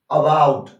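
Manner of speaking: अबाउट with a light schwa at the start; weak first vowel. Shown as a demonstration. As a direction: lean on the second syllable of अबाउट. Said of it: "बहुत ही हल्का बोला जाता है".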